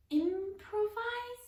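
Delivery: very high, slow, puzzled question; wondering. A narrator's reading. Jessie trying the new word, high and puzzled. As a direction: stretch the new word out curiously. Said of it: "Jessie wondered".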